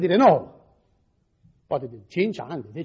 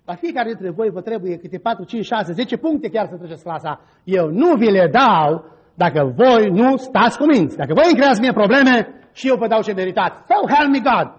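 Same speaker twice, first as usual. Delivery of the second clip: stern warning; 4 dB louder than usual. Retold or imitated. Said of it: "i-am și speriat și am zis".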